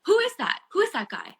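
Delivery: high, panicked retold questions; freaking out. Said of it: "I'm, I'm freaking out".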